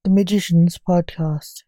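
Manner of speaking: loud, theatrical podcast introduction; grand announcer intro. Acted. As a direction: announce it with gothic ceremony.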